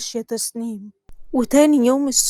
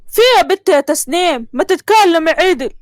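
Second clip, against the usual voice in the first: scolding; 3 semitones higher, 3 dB louder than usual. Acted. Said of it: "ما تزعقش فيها يا عبد الصمد".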